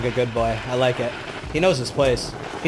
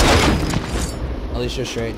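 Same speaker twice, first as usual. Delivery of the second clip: slow sarcastic whisper; mock whisper; 3 semitones lower, much slower than usual. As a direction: whisper it back, mocking.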